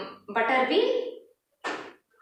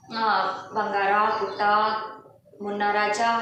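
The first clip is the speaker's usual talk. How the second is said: coaxing mom; 3 semitones lower than usual. Retold or imitated. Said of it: "इस तरह कहती है ना।".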